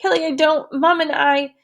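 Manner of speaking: lightly voiced distraught girl. A narrator's reading. Girl pleading helplessly with her friend, mildly distraught. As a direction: let her fall apart a little. Susie breaking down.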